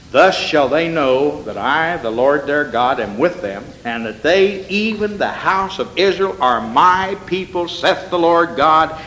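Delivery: slow, weighty reading of God's words; slow scripture reading. Acted. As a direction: let each phrase land slowly.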